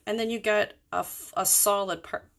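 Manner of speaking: talking through hiccups; words broken by hiccups. Real, not acted. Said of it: "I've got the hiccups again".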